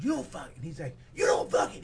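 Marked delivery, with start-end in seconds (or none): 0.0-0.6 restrained mock argument, held in; retold swearing match, still held back; retold angry cursing. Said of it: "He brings it up". 1.1-1.8 mock rough yell, louder comeback; imitated angry stranger, raising the volume; retold escalating anger. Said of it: "He brings it up".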